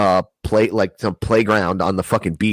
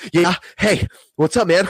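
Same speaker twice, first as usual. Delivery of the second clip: much higher, nervous fake-casual greeting; 10 semitones higher than usual. Greeting his friend while running from ex, high nervous. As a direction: act breezy while panicking. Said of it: "I was like".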